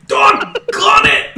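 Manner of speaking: very high, drawn-out yell; goblin's distant cry. Acted. Shot goblin heard from further away, loud anguished holler. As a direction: holler it slowly as if from far away. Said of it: "you hear from further away".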